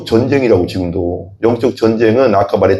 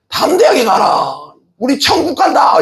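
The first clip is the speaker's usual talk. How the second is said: high, slow, ringing proclamation; bold shout. Retold or imitated. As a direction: shout it triumphantly to the son. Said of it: "이렇게 했대". (천국 간다고 높이 외치는 엄마)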